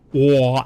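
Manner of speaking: wah drawn out, open aw; wah sound. Shown as a demonstration. Streamer imitating the vowel he used in awful. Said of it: "it's more, well".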